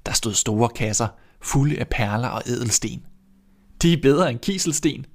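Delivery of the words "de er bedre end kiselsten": put-on higher, pleased child voice; bright girl voice; happy girl. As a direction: delight in the treasure. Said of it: "sagde Grete".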